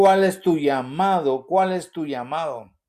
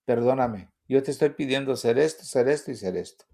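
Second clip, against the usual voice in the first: humble prayer; 3 semitones lower than usual. Retold or imitated. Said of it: "yo entendí y dije".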